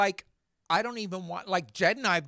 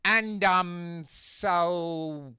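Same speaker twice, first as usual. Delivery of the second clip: filler-word demo. Shown as a demonstration. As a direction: lightly imitate kids' filler-heavy talk. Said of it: "It'll go like this".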